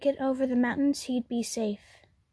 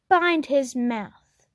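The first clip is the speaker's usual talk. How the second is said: commanding order; 6 dB louder, slower than usual. Acted. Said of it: "the waiting dragon ordered".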